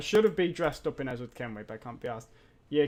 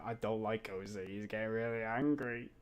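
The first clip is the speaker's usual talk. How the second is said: whiny complainers. Retold or imitated. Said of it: "Everyone's like".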